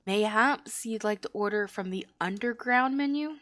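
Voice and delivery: mildly affronted tavern-keeper, then confiding; lightly voiced barkeep. Barkeep answering request for weak ale, lightly in character. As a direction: play a barkeep defending the house ale. Reads barkeeper's dialogue in game.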